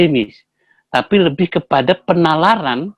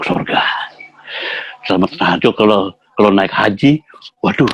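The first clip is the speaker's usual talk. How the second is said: fond praise; 6 semitones lower than usual. Retold or imitated. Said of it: "Mukanya beda lagi".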